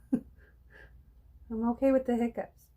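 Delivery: laughing. Real, not acted. Laughs about her hiccups.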